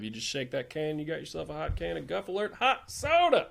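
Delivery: a mock sponsor read, lightly announcer-like. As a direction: pitch the fake soda like a radio host.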